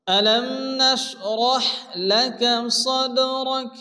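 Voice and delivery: slow, melodic tajweed recitation; Quran recitation. Shown as a demonstration. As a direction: chant the verse slowly and tunefully. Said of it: "repeats the recitation". (ধীর সুরেলা কুরআন তিলাওয়াত)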